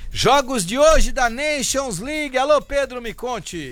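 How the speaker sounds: high-pitched radio segment announcement; announcer's call. Real, not acted. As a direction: call in the reporter with lifted pitch. Announces segment, calls in reporter. (chamada animada de locutor)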